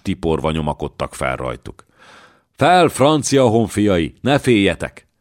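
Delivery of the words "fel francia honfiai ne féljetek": battle cry. Acted. Joan urges climbing troops.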